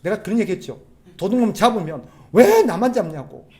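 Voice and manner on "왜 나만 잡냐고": loud, high, drawn-out protest; indignant anger. Acted. Caught thief protesting to whoever nabbed him, loudly indignant. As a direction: play a caught crook crying unfair. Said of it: "화를 내요".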